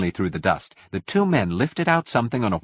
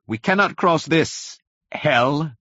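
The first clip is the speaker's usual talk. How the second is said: slow, high-pitched exclamation; raised, drawn-out declaration; desperate shout; 7 semitones higher, slower than usual. A narrator's reading. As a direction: cry it out slowly over the chaos. Brother shouting over the crush.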